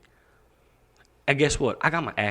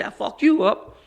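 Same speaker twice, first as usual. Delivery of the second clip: retold threat; 9 semitones higher than usual.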